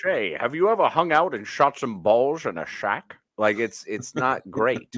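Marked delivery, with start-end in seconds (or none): 0.0-3.2 put-on Scottish-accented voice. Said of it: "like Sean Connery trying to be really uncomfortable".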